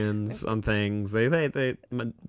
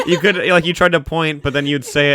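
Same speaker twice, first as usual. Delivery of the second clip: laughing; 6 semitones higher, 9 dB louder than usual. Real, not acted.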